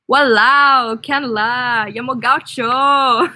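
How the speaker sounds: Singlish with a heavy American accent; clumsy American try at Singlish, slow finish; gringo Singlish. Shown as a demonstration. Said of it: "I sound like a gringo in Singapore".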